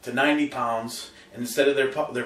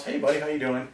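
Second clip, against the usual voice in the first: calm greeting; 5 dB quieter than usual. Shown as a demonstration. Owner coming home, greeting dog calmly and softly. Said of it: "Teach them very calm".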